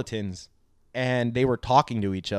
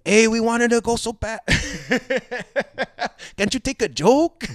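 much higher, laughing whiny voice; mock complaining fans; 11 semitones higher, 3 dB louder than usual. Imagined fans complaining to the podcasters, high whine. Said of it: "mi gente are gonna go".

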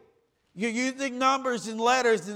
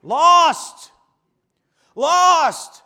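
shouted lost; 7 semitones higher, 11 dB louder than usual. Real, not acted. Preacher's punchline.

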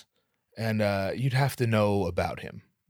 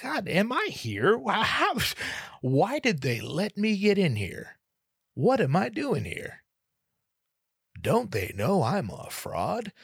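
high, drawn-out wail of self-doubt; hammed-up anguish, stretching the words; mock impostor panic; 11 semitones higher, slower than usual. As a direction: wail it slowly to yourself. Acts out inner impostor panic.

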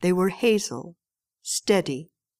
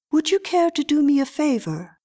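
put-on higher, light child's voice; little girl voice; 7 semitones higher than usual. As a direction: speak like a poised little girl. Little girl Miriam asks a favor.

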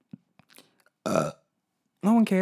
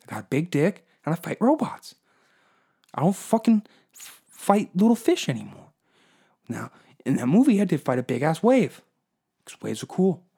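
Mark Wahlberg bro; 4 semitones higher than usual. Acted. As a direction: yell it like a cocky Boston tough guy. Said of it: "Fucking Mark Wahlberg".

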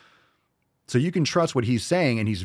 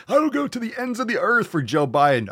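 higher, louder, hammed-up pledge; mock Newsom; 9 semitones higher, 3 dB louder than usual. Mocking Newsom's oath to Biden, hammed-up. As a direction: ham up the loyal oath. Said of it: "mocking quote".

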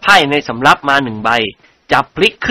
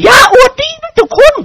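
threatening; 4 dB louder than usual. A narrator's reading. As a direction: warn him with a pointed finger. Lady points at lord. (คุณหญิงขู่เสียงสูง)

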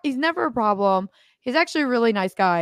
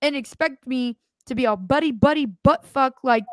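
higher, heated scolding; indignant telling-off; 4 semitones higher than usual. Retold or imitated. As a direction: tell them off, indignant. Retold telling someone off.

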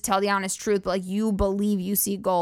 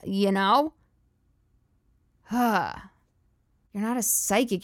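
normal talking voice

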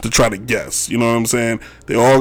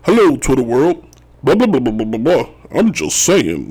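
lightly imitated celebrity with a cartoon chef's sing-out hello; hammed-up greeting drifting into mock rambling; O J Simpson. Host likening a celebrity to Chef from South Park, mocking impression. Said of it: "He sounds like Chef from South Park".

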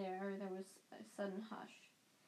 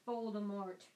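bellowed; 3 dB louder than usual. A narrator's reading. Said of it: "Harry bellowed".

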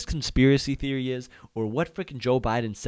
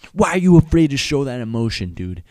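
hyped up; 4 semitones higher, 11 dB louder than usual. Real, not acted. Urging viewers to get hyped.

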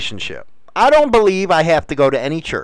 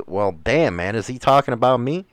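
wary aside; 7 semitones lower, 6 dB quieter than usual. Retold or imitated. Churchgoer's inward reaction to preacher.

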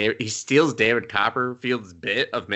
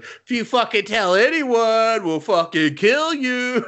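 higher, slow, hammed-up threat; mock menacing threat; 12 semitones higher, 4 dB louder, slower than usual. Magic kid threatening the tax collectors, mock menacing and slow. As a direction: drag out a cartoonish threat. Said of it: "And he's like".

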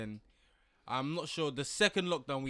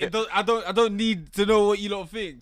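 laughing; 6 semitones higher, 13 dB louder than usual. Real, not acted. Laughing defiance.

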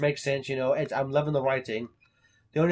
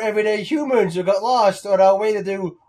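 higher, louder nerdy fake; fake nerd voice; 5 semitones higher, 8 dB louder than usual. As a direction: play a bad cover story. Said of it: "pretending to be the sci-fi kids".

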